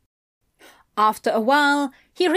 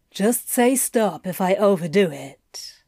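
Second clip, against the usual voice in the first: reassuring. A narrator's reading. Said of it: "in a reassuring tone".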